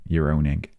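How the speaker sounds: lightly put-on regional accent; a small playful touch of a character's accent; Ernie's accent. Gamer savouring a fun phrase in a character's accent. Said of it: "fun to say in an Ernie's accent".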